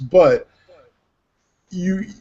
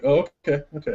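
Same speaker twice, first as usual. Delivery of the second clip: lightly acted, agreeable acceptance; mild compliance; 3 dB quieter, faster than usual. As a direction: play an actor willing at first. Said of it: "at first, you know, it was like".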